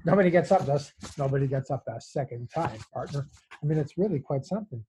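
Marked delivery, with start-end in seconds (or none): 0.0-3.3 lightly voiced cowboy tough guy; a hint of movie cowboy, trailing down on "partner"; John Wayne. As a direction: toss it off as a mock western threat. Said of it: "That's a John Wayne line".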